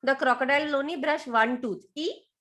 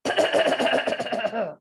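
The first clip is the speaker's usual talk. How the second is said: croc throat noise. Shown as a demonstration. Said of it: "when you make that noise".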